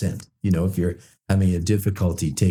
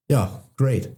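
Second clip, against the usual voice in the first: higher, dry mocking voice; sarcastic; 4 semitones higher than usual. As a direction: drip sarcasm, pitched up and changed.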